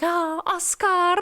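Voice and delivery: high, very slow swooning cry of the name; mock-melt over the name; Jester imitating swoon. Jester mimicking Guinevere's swoon, high slow mock sigh. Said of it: "where Jester's like".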